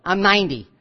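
understated, doubting statement of fact; mildly dismissive, acting out disbelief; skeptical disbelief. Sarah objecting to God about her age, disbelieving. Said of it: "a disbelief, like".

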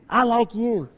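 soft, distant echo; cave echo. Acted. Cave returning the boy's words, soft echo. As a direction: hush it into a faraway echo. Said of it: "what do you hear back".

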